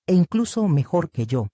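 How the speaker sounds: "mejor" calmly stressed. A narrator's reading. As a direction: lean on "mejor", give it weight. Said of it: "recalcando la palabra mejor".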